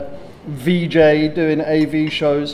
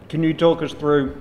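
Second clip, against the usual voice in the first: talking through a mouthful of food; mouth full. Real, not acted. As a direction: speak while still chewing a bite. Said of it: "eating with my mouth full".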